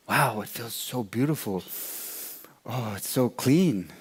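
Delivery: lightly acted, breath-taken relief; hushed wonder. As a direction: marvel softly at the warmth. Mouse feels warmth, marvels softly.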